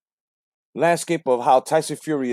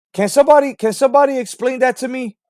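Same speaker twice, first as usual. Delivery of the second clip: exasperated demand; 7 semitones higher, 3 dB louder than usual. Real, not acted. Ranting demand at fans.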